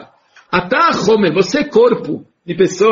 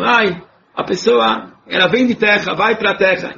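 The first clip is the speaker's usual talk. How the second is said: grumbling. Shown as a demonstration. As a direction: grumble it like a tired complaint. (resmungando devagar, em tom de queixa)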